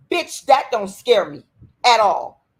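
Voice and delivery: slow, loud defiance that swells on "at all"; defiant shout. Real, not acted. To commenters threatening CPS, a slow defiant shout. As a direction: spit it out slowly and let it blow up at the end.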